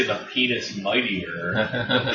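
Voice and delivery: "penis mightier" run together so "pen is" becomes "penis"; deliberate misreading. Shown as a demonstration. Co-host mishearing the motto as a joke, "penis" run together. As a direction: say "penis" as one word before "mightier". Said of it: "when you said the pen is mightier".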